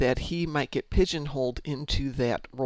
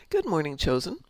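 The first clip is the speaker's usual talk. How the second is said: whispering; 3 semitones higher than usual. Real, not acted. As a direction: whisper it under your breath. Greeting chat in a whisper.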